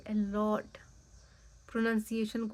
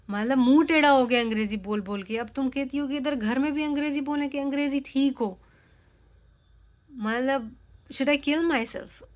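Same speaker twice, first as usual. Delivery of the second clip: mock exasperation that builds louder to the end; fed-up venting at the roommate, growing louder; exasperated rant; 4 dB louder than usual. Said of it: "मैंने कहा". (झुंझलाहट भरी शिकायत, आवाज़ धीरे-धीरे ऊँची)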